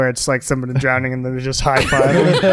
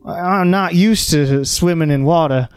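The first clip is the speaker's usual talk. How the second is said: put-on southern accent; 3 semitones higher than usual. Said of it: "Me and my southern accent".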